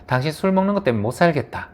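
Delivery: half-hearted acted grievance; mild mock complaint. Shown as a demonstration. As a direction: complain as if fed up, lightly acted. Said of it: "화나고 싸움을 하게 돼요". (살짝 화난 척 불평하는 말투)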